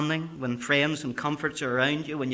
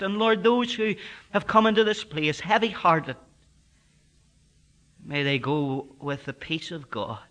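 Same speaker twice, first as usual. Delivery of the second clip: a lightly intoned pulpit prayer; 2 semitones higher than usual. Acted. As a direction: pray gently on behalf of the congregation. Prayer closing the sermon.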